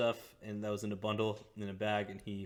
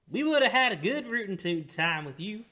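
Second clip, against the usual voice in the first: high put-on innkeeper voice; 11 semitones higher, 10 dB louder than usual.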